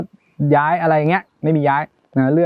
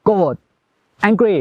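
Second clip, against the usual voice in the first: mock angry outburst; 3 semitones higher, much slower than usual. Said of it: "โกรธคือโกรธเลย ตัวแบบ".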